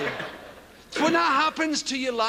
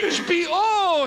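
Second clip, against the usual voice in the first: higher, slow and grand "H B O"; mock confident H B O; 5 semitones higher, 3 dB louder, slower than usual. Comedian quoting himself, slow grand "H B O". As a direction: draw out "H B O" with mock pride. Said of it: "he says".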